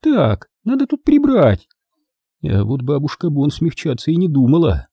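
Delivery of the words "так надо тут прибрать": put-on very high, drawn-out old-lady voice; high-pitched, businesslike exclamation; Maisie, brisk grandmother. A narrator's reading. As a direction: take charge in a high voice. Maisie takes charge of tidying.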